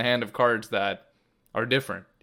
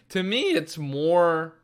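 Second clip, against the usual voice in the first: voice crack; 5 semitones higher, much slower than usual. Real, not acted. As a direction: voice cracking upward mid-phrase. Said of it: "voice crack, sorry".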